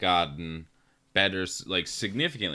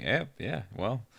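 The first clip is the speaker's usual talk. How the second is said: put-on southern accent; 5 semitones higher, 8 dB louder, slower than usual. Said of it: "in this southern accent".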